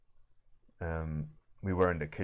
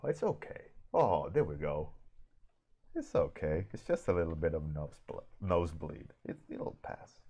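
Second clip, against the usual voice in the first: soft, soothing dad voice; calm reassurance; 5 dB quieter than usual. Retold or imitated. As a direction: settle the child down gently. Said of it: "But outwards, you just go".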